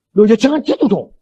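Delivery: wife begging husband not to die; pleading wife. Retold or imitated. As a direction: beg him not to go. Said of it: "wife pleading, retold dialogue".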